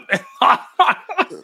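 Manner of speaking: high burst of laughter. Real, not acted. Laughing at the mushroom joke.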